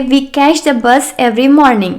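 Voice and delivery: slow, careful model sentence; teacher dictating slowly; slow dictation. Shown as a demonstration. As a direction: read it out slowly for learners. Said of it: "हम कहेंगे".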